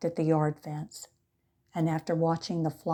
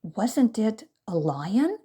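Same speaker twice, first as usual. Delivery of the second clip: sniffling; 5 semitones higher, 4 dB louder, slower than usual. A narrator's reading. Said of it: "still sniffling softly".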